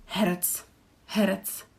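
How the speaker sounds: herec ending in a crisp ts; final c as ts. Shown as a demonstration. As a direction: stress the ts sound at the end of herec. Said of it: "another c is at the end".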